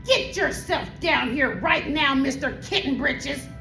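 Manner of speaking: ordering mother. Acted. Mother to kitten who slept with birds, ordering. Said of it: "ordered Mama Junebug Jones".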